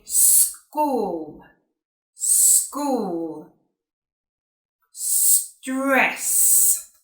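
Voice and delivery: long hissed s opening "school", "stress", "stop", no vowel before it; clean initial S. Shown as a demonstration. Teacher modelling for Spanish learners, drawn-out s starting "school", "stress", "stop". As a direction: stretch the s, then release "school", "stress", "stop". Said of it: "avoid putting the E in front of".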